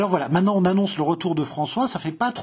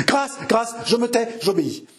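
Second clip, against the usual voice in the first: high-pitched cry for mercy; panicked pleading; 7 semitones higher than usual. Acted. Mother submitting to save her daughter, panicked pleading. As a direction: beg high, then drop into submission.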